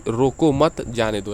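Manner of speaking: slow रोको मत, break, then जाने दो; group मत with रोको and pause before जाने दो; pause after मत. Shown as a demonstration. Teacher explaining the second meaning to students, pause after मत. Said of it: "दूसरे वाले में क्या इंगित हो रहा है".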